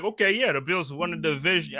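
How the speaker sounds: put-on a half-hearted Boston accent, barely there; lightly imitated Boston accent mocking a Patriots fan. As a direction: try a Boston sports fan accent and fall short. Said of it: "I can't even do your accent".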